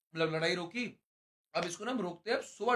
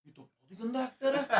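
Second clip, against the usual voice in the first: laughing through the words; can't stop giggling at the bad acting; 4 semitones higher than usual. Mocking a housemate's fake acting through laughter. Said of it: "मेरी हंसी ना रुके".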